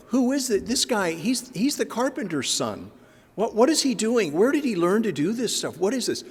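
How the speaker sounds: high, amazed disbelief at the carpenter's son; incredulous townsfolk. Acted. Nazareth crowd doubting the preacher, in high astonished disbelief. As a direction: townspeople can't believe what they're hearing. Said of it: "They were totally surprised".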